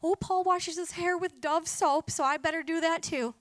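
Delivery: hammed-up follower voice; mock copycat. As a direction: play the mindless imitator. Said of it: "monkey see, monkey do".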